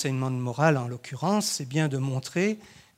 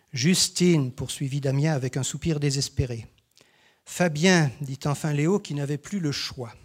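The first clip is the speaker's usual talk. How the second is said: lecture d'histoire aux élèves. A narrator's reading. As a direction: lecture vivante, répliques des enfants un peu plus hautes. Reads children's story with characters. (l'enseignant lit l'histoire aux élèves, lecture animée)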